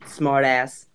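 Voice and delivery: confident little American accent demo; American accent with a Southern tinge. Shown as a demonstration. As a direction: show off your best American accent. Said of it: "this is the one I really do well".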